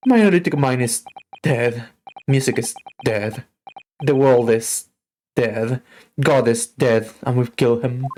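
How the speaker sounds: hammed-up melancholy gentleman; gloomy detective. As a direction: moan it like a despairing genius.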